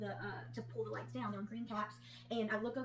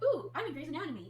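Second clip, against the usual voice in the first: playful, starstruck exclamation; mock thrilled; 5 semitones higher, 6 dB louder than usual. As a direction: gush like a fan on a TV set. Retold thrill entering operating room.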